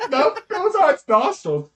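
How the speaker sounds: high, loud, laughing; laughing correction. Real, not acted. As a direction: correct them through a real laugh. Laughs at the player's mistake.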